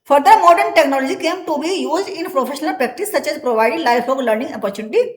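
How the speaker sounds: slow, deliberate dictation pace; teacher dictating from the book; slow textbook reading. Acted. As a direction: read it out word by word for the class. Reads textbook English aloud slowly.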